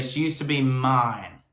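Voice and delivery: slow, light North Carolina-esque Southern accent on "mine". Shown as a demonstration. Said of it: "She's adding that accent on".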